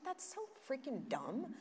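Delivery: a friend's loud, high, slow mock scolding. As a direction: play the friend who scolds you lovingly. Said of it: "She's like".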